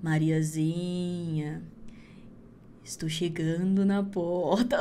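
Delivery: very slow, low, drawn-out eerie call; creepy witch call. Acted. Witch calls Mariazinha from the forest, slow and eerie. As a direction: stretch the name like a ghost in the dark.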